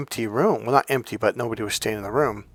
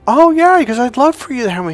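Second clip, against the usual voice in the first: eager host; 12 semitones higher, 9 dB louder than usual. Retold or imitated. Host eagerly offers the clothes.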